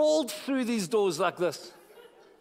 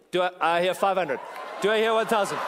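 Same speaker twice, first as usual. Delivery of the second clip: mock auctioneer; 3 semitones higher, 5 dB louder than usual. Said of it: "Thanks for the auction".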